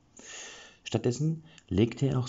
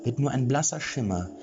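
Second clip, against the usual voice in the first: much higher, louder boastful voice, slowing at the end; pompous lecturing falsetto; 9 semitones higher, 3 dB louder than usual. A narrator's reading. Chica Vollbart brags to the group, high, loud and pompous. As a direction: lecture them grandly about his heroism. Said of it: "dozierte er weiter".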